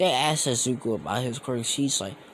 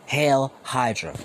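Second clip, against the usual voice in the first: louder than talk, less forceful mock salute; milder mock cry; 3 semitones higher, 6 dB louder, slower than usual. Repeating the Hydra salute, milder mock cry. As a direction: echo the villain's chant with moderate force.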